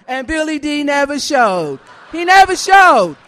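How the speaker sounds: never hit hard and loud; stress on never. Real, not acted. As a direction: punch never both times.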